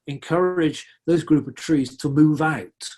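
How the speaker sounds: "move out" leaned on and lifted; emphasize "move out" as the key idea; stress on move out. Shown as a demonstration. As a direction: hit the words "move out" firmly. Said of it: "I emphasize the word move out".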